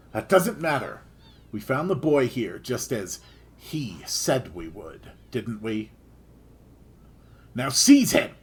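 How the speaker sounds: a hint of a gruff soldier, calm and firm; understated menacing captain; lightly voiced stern knight. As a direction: talk down to the boy, polite but cold. Voices Karsh again.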